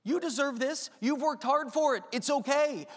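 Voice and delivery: a hint of flattering pride. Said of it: "pride tells you".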